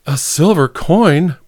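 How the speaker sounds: slow, startled breathy question; breathed. A narrator's reading. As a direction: breathe it out in disbelief. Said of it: "breathed Baroness Check".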